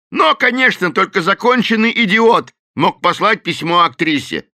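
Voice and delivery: loud, high scornful shout; the professor shouting at the gang; angry professor. A narrator's reading. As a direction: cut in with contempt. Professor joins quarrel.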